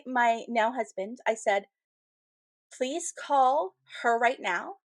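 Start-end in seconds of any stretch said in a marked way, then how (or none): 2.7-4.7 overly dramatic. Retold or imitated. Woman in labor begging her husband, overly dramatic. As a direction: retell it as a melodramatic farewell request. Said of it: "it's so overly dramatic".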